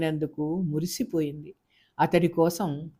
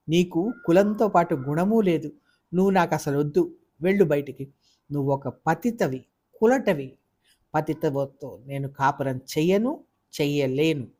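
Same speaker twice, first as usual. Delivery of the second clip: mild angry insult. Acted. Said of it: "చిలికి చిలికి గాలివానైంది".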